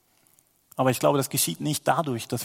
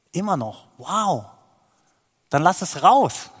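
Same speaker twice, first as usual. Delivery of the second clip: rising higher and louder to an urgent call; building excitement; 6 semitones higher, 6 dB louder than usual. Real, not acted. Preacher urges the congregation to let it out, building to loud and high. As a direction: build it up until you let it out.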